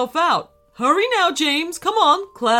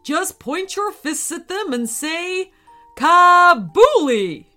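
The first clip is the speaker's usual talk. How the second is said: wizard shout; 7 semitones higher, 8 dB louder than usual. Acted. Teacher shouts the spell word to James across the field. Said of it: "Mister Tizard shouted".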